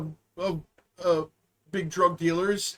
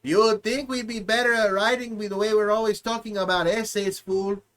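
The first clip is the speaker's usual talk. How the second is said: mock Hispanic accent. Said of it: "bad Hispanic".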